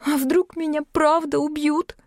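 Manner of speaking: high-pitched worried question; uneasy fear. A narrator's reading. Yulka fears the creditors will kill her, uneasy. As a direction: shrink a little from the thought. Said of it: "поёжилась Юлька".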